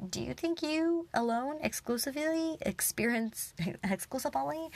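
quoting dad, breaking into a laugh; giggling while imitating dad; laughing through the quote. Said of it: "he was like".

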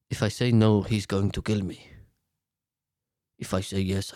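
low, hushed, frightened aide; scared aide. Retold or imitated. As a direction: cower and murmur like a terrified aide. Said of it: "And then Vasil's just like".

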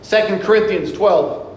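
firm, projected sermon cadence; preaching. Real, not acted. Preacher urging the congregation to read scripture daily, preaching. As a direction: preach with measured emphasis and deliberate pauses.

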